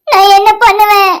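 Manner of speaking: slow, tearful plea through sobs; weeping in despair; crying. Acted. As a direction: break down crying as you ask. Heartbroken girl alone, betrayed.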